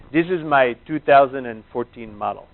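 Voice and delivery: light Indian accent impression; a hint of Deepak's Indian accent; mild imitation of an Indian accent. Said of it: "I'll do my, my accent for you".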